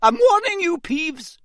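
very high, loud start, falling off on the name; exasperated teacher's threat; shouted warning. A narrator's reading. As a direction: warn the troublemaker furiously. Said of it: "shouted Professor McGonagall".

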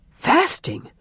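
high, startled echo of the word; shocked exclamation; astonished father. A narrator's reading.

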